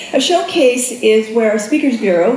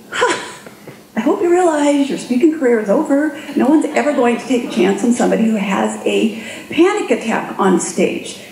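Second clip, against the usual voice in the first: smug inner critic. Retold or imitated. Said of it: "I have a voice over here saying".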